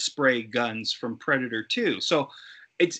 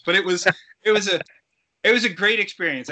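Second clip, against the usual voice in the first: laughing; 5 semitones higher, 5 dB louder, faster than usual. Real, not acted. Laughing while wrapping up story.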